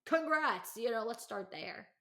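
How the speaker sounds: imagined eager best friend. Pretend. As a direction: fire off plans like a thrilled friend. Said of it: "I'd be like".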